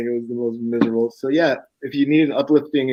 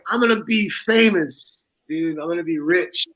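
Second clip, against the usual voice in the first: put-on higher, slow, grandiose drunk boast; deluded young man boasting, slow and higher; 4 semitones higher than usual. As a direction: brag like fame is guaranteed.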